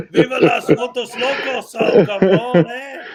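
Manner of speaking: put-on loud cholo street-corner accent. Streamer imitating guy in button-down standing on the corner, cholo accent. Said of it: "like one of those guys with the".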